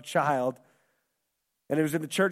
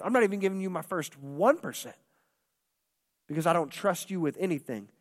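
confession; 2 semitones lower than usual. Retold or imitated. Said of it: "to realize".

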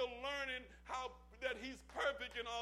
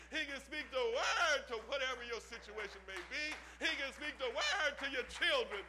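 building to full-force preaching, louder and louder; rising preaching; 3 dB louder than usual. Real, not acted. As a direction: hammer each line harder.

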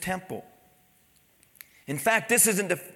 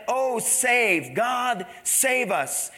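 mild, raised-pitch plea; crying out; 5 semitones higher, much slower than usual. Retold or imitated. Preacher voicing the crowd welcoming Jesus, mildly crying out. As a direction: cry it out, held in check. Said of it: "they began to cry out".

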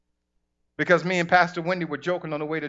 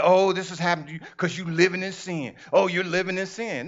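mock judgmental voice. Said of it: "people are like".

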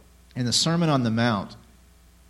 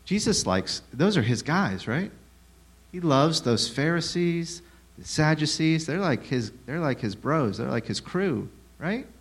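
mock sarcasm; 4 semitones higher than usual. Mock claim, then "No.

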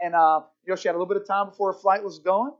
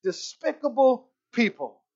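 slow, drawn-out disgusted fuming; ticked off; 3 semitones higher, slower than usual. Retold or imitated. Woman stewing about the cookie man, ticked off. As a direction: act out her stewing, word by word. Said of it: "ticked off the whole time".

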